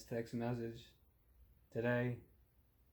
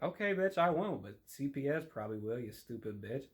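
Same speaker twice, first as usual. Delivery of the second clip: sarcastic retort; 3 semitones higher than usual. Retold or imitated. Comic answering a touchy mother, high then muttered.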